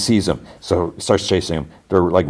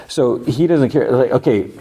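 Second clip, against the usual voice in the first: laughing in disbelief; 6 semitones higher than usual. Real, not acted. Speaker's own exasperated comment.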